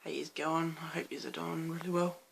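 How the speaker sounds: hoarse, rough late-night voice; croaky voice. Real, not acted. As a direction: speak with a croaky throat. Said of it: "really croaky voice".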